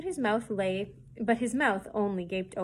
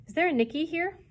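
gruff; 8 semitones higher, 4 dB louder than usual. A narrator's reading. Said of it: "he asked gruffly".

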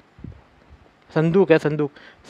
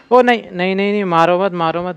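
raised, repeated pleas in a rush; alarmed pleading; 3 semitones higher than usual. Real, not acted. Player cornered at a dead end, alarmed pleading. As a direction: beg not to be killed.

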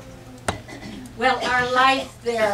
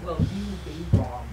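wry line broken by a laugh; amused teasing with a laugh; 6 semitones lower than usual. Real, not acted. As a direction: chuckle through the punchline.

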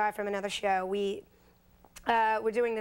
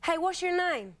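shouting over loud bar; 7 semitones higher than usual. Retold or imitated. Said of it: "it's really loud".

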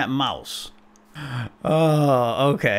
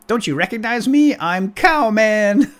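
high, loud, proud little superhero; Cowman voice; 7 semitones higher, 5 dB louder than usual. Pretend. Little guy introducing himself as Cowman, high proud character voice. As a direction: announce yourself in a high cartoon voice, stretching the name.

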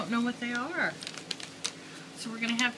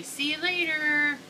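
slow modelling; 5 semitones higher, slower than usual. Shown as a demonstration. Mom modelling words for child.

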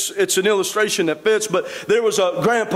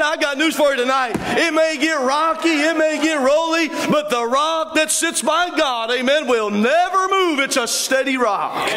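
preaching at full force; 2 semitones higher than usual. Acted. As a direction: drive it home like a revival preacher.

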